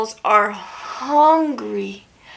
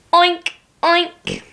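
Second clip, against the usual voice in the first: pig oink; 2 semitones higher than usual. Shown as a demonstration. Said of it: "Can you say that with me?".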